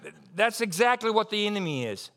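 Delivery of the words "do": high squeaky mock fright; a high, hammed-up frightened voice; mock scared voice. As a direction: sarcastically fake being terrified. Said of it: "and they're like".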